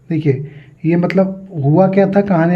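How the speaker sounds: usual speaking voice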